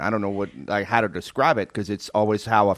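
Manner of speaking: put-on comic upstate New York accent. Chef insisting he is from upstate, New York accent. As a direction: lay on a supposed traditional New York accent. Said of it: "like a New York accent".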